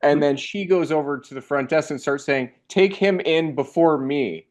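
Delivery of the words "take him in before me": slow, higher-pitched, lightly voiced plea; insistent old woman. Old woman urges front desk to take injured man first, lightly voiced insistence. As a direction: lightly imitate an urgent, drawn-out demand.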